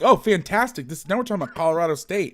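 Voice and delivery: mock delight at boring football talk; sarcastic excitement. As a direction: gush sarcastically about the team. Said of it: "Daniel's like".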